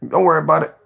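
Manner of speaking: breathy whispered reassurance. Real, not acted. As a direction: whisper it like a secret. Hushed aside, then said again.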